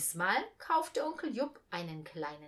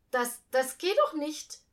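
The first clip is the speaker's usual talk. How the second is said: halting stammer, louder; 6 semitones higher, 8 dB louder than usual. A narrator's reading. The boy protests to Uncle Jupp, stammering. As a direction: stumble over the first word in dismay. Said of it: "stammelte ich".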